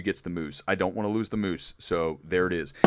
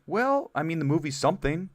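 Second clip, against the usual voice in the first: higher, hesitant noncommittal reply; awkward hedge; 7 semitones higher than usual. Retold or imitated. Telling Jessie Buckley what he thought of her film, awkwardly hedging. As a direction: dodge the question politely, half-hearted. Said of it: "I literally would say it like that".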